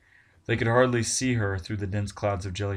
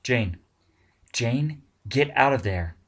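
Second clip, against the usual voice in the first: urgent call; 3 semitones higher, 4 dB louder, slower than usual. Acted. Tina calls over radio.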